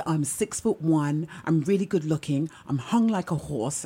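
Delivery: low, understated cocky boast; mock a man smugly listing his assets; lightly put-on low swagger; imitating cocky man. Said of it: "he was really cocky".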